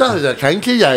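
mock County Louth accent, tongue barely used; paralyzed-tongue Louth accent. Showing the lads a Louth accent, slack-tongued caricature. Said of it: "you don't use your tongue".

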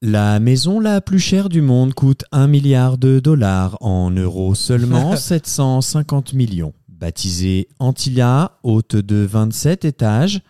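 slow supermarket announcement voice; over a PA system. Acted. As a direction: store loudspeaker announcer. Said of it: "Voix de magasin".

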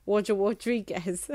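Jonathan Ross lisp, r as w; Jonathan Ross impression. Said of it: "you have to say it like Jonathan Ross".

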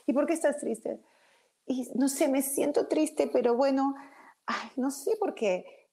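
sad inner voice. Retold or imitated. Teacher voicing a sad person to her audience, mild mock lament. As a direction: play a lightly voiced sulky self asking why. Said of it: "uno se siente triste y decís".

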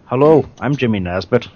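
brief impression of an Irish actor; Jimmy Nesbitt. Shown as a demonstration. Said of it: "my James Nesbitt impression".

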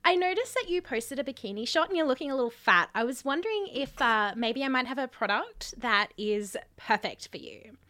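gushing sales pitch, mock sincere; MLM seller voice.

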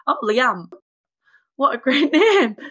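lifted, amused imitation of an admirer; mimicking the man. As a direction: gush over the name in mimicry. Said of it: "he was like".

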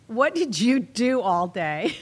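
laughing through the mock question. Host acting the dangerous question, breaking into laughter. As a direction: crack up asking about the day.

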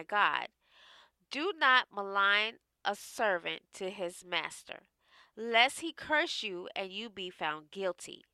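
measured, hushed Bible reading; scripture reading. Acted. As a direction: read it like holy scripture. Reads Proverbs aloud.

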